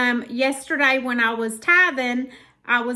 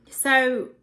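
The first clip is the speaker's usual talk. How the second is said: a little winded; short of breath, talking anyway. Real, not acted. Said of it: "I don't know why I got out of breath".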